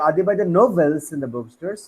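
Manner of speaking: emphasis on "novels"; stress on novels. Shown as a demonstration. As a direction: make "novels" the important word. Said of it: "put emphasis on the particular word".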